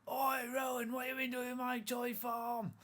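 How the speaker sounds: indignant high-pitched shout; loud, squealed telling-off. Acted. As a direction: yell an accusation at a sibling from across the house. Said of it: "you can hear, shout".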